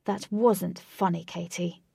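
slow, mock-serious tone; deadpan, pretend to be grave; super serious. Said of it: "in a super serious tone".

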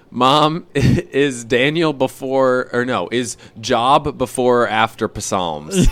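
mild mock yell down to mom, slow and drawn out; retold yell. Kid at the top of the stairs asking mom, mock calling out. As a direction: half-shout it slowly like a kid calling downstairs. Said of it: "I yelled down to my mom".

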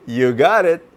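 high, bright farewell; cheerful bird. A narrator's reading. Bird cheerfully says goodbye and flies off. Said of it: "And the bird says".

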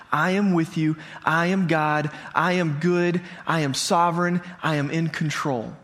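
measured declarations, a pause after each; steady, deliberate reassurance; solemn assurance. Retold or imitated. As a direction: voice God's promise in even, separate statements. Voicing God's promise, measured declarations.

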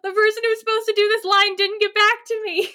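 talking through laughter; laughing. Real, not acted. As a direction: laugh while explaining. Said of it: "laughing explanation".

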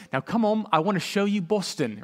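lightly imitated British accent, lifted pitch. Friend's mom greeting a visitor at the airport, imitated British accent. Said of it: "right, in her British accent".

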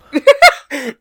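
loud, high burst of real laughter; cracking up hard at the dumb story; big laugh. Real, not acted. Friend laughing loudly at a coworker's dumb claim, bursting with laughter.

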